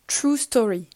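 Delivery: a light self-mocking English accent on the title. Shown as a demonstration. Columnist naming the podcast title, in a mildly self-mocking English accent. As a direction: say True Story with a hint of an English accent, tongue in cheek. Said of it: "avec mon magnifique accent anglais".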